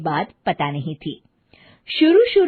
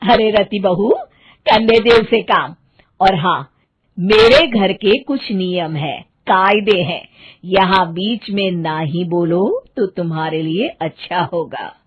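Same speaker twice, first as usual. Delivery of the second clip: stern mother-in-law; 2 semitones lower, 4 dB louder than usual. Acted. Stepmother scolding bride.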